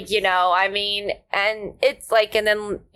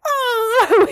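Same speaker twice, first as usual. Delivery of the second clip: mock yawn cry; 11 semitones higher, 4 dB louder than usual. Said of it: "like, like".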